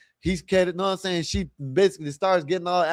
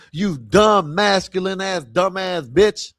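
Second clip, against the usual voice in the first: louder, slower mocking jab at the woman; mock angry insult; 4 dB louder, slower than usual. Vlogger cursing the woman in the clip, mock angry. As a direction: spit the insult at her like she's in front of you.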